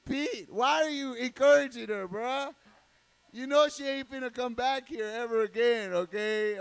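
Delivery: loud, scolding call-out. Acted. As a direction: tell Pete off across the room. Scolding Pete loudly.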